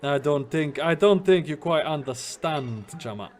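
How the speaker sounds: attempted Jamaican accent with slow phrases; game character in a loose Jamaican accent; shaky Jamaican accent. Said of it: "like, a Jamaican accent".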